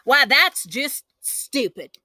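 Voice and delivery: slow, high scornful scoff; indignant. A narrator's reading. Girl scoffing at her brother's idea.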